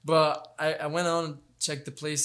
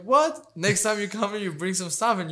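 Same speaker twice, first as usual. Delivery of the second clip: retold coach, higher and louder on "What?" then settling; an amused retelling of a coach's loud "What?"; incredulous coach; 5 semitones higher, 4 dB louder than usual. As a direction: imitate the gym coach's disbelief, then lay down the rule. Coach scolding a newcomer.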